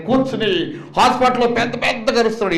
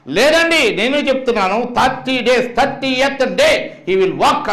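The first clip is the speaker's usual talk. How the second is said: defiant declaration; 5 semitones higher than usual. Retold or imitated. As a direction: stand up to the doctors. Preacher defying foreign doctors.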